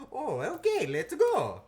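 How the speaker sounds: high, loud cartoon Italian accent. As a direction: exclaim it in an over-the-top Italian accent. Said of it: "You need an Italian accent".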